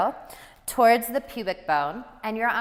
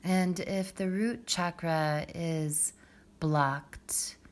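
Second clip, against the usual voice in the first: guided meditation; 5 semitones lower, 6 dB quieter than usual. Acted. Yoga teacher guiding students into the root chakra, calm meditative hush. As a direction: ease them gently down into the breath, unhurried.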